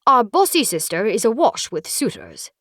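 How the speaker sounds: high, theatrical count voice with a loose tooth; hammy old count lisping through a wobbly tooth. Acted. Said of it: "sounding more like a count with a funky loose tooth".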